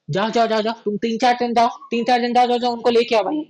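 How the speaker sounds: mildly commanding, pitch held up; Duke giving orders. Acted. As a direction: send them off with quick, repeated urging. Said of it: "Duke बोल रहा है".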